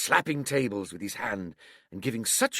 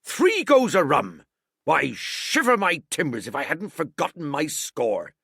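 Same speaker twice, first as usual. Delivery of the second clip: put-on excited old sea cook; 6 semitones higher, 5 dB louder than usual. A narrator's reading. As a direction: marvel at his own slip. Silver laughing at himself.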